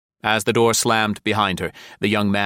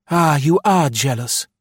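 higher and louder cry; an excited outburst, clearly raised; eager cry; 7 semitones higher, 5 dB louder than usual. A narrator's reading. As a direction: pounce on his jealousy with delight. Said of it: "she cried".

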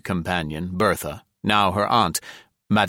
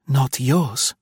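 protesting; 5 semitones higher than usual. A narrator's reading. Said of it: "she protested".

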